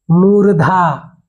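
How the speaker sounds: मूर्धा drawn out slowly with an aspirated ध; slow careful मूर्धा. Shown as a demonstration. Teacher sounds out the term slowly for pupils. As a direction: stretch मूर्धा so the ध is clear. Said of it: "मुर्गा और मुर्दा नहीं बोलना है".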